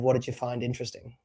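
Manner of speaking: ordinary talk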